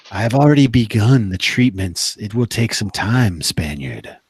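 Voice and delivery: lightly voiced sorceress. Game master voices the sorceress.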